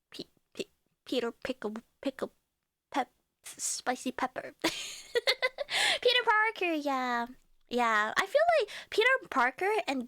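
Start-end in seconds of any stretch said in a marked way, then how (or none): 0.1-4.5 unvoiced, stumbling whisper; whispered fumble. Real, not acted. 4.6-6.7 high, slow, drawn-out "Peter Parker"; triumphant recall. Real, not acted.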